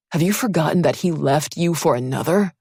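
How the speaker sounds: loud, harsh accusation. Acted. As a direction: lash out at her with the words. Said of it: "His harsh words lashed out".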